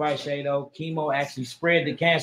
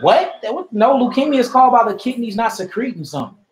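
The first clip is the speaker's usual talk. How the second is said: incredulous retort; 5 semitones higher than usual. Retold or imitated. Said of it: "I'm like".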